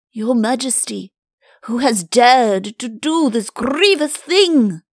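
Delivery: slow, high, loud outraged question; scandalised, swooping Chancellor; aghast. Acted. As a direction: draw it out in horrified outrage. Aghast Chancellor demands the culprit.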